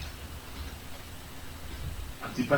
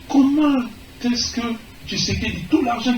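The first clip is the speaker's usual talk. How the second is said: indignant shout; 7 semitones higher than usual. Real, not acted. Speaker challenges Tshisekedi before supporters, outraged shout. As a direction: fling the question at the crowd. Rally speech, indignant question.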